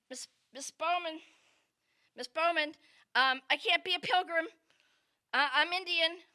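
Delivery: put-on young girl begging her teacher; little girl pleading. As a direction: plead like a small kid.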